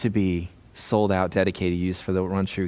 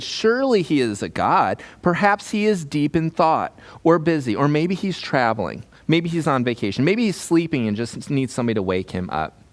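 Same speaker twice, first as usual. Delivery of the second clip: mock-helpful taunt, pitched up; 5 semitones higher than usual. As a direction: needle the rival prophets. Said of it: "Elijah began to taunt them".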